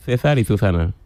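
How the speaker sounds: lisping Andalusian accent. Real, not acted. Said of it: "Ceceo es decirlo todo con C".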